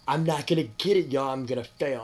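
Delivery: mock despair. Telling viewers how he felt he'd fail, loud despairing cry. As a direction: wail it like a lost cause.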